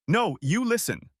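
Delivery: high sharp snarl. A narrator's reading. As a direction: bite the words back at him. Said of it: "I snarled".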